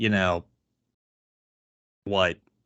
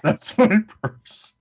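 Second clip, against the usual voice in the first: higher, louder and slow, a mocking shriek; a friend mimicking a cartoon catchphrase, higher and slow; mock Bobby yell; 10 semitones higher, 4 dB louder, slower than usual. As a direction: parrot the line higher and drawn out. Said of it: "What is".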